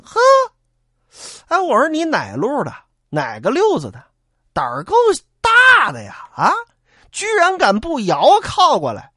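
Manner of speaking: furious yell rising to a shout; angry challenge. Acted. Bandit shouting at the boatman who won't come back. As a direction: bark the threat across the river.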